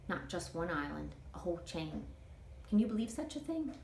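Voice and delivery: easygoing Southern auntie dreaming aloud; a hint of a chatty older woman; Toot, folksy older woman. Toot's voice in read story.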